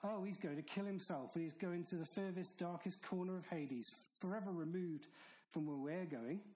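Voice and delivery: hammed-up sneer of the smug leaders; mocking. Preacher imitates the leaders mocking Jesus, mild sneer. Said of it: "So they mock Jesus and say".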